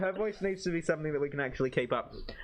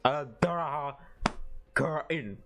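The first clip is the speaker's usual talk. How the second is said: lightly voiced old wizard; a hint of a solemn wizard; Gandalf-like voice. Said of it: "I'm doing like a Gandalf".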